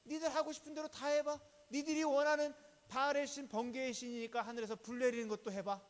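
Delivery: high, loud, confident taunt; confident challenge. Acted. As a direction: dare them loudly to go first, pitched well up. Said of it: "여유가 있으니까 어떻게 합니까?".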